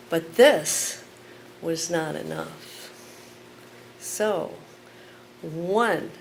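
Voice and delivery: measured, pointed spoken word; poem performance. Acted. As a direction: let each number land. Performs poem Chicago by Numbers.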